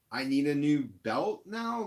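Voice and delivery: can't believe what the mechanic says; indignant disbelief. Real, not acted. Angry at the repair shop.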